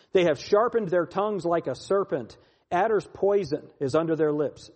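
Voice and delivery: emphatic psalm reading, key words punched; scripture reading. Acted. Preacher reads the psalm to his listeners, declaimed. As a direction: declaim the psalm with surges of force.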